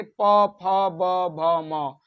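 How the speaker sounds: प, फ, ब, भ, म spaced out, lips meeting on each; labial articulation demo. Shown as a demonstration. Teacher having students feel the lips touch, deliberate articulation. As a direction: sound out प, फ, ब, भ, म one at a time, dropping away on म. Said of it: "बोल के देखिए".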